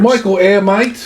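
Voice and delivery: lightly mimicked British accent; playful put-on British accent. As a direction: do a mock-British bloke introducing himself. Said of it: "he had the British accent".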